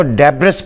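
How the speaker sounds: ڈیبرس with the final s sounded; the teachers' mistake, ڈیبرس with an s; wrong pronunciation. Shown as a demonstration. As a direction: say ڈیبرس voicing the s. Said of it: "pronunciation ڈیبرس نہیں ہے".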